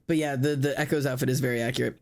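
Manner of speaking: ordinary delivery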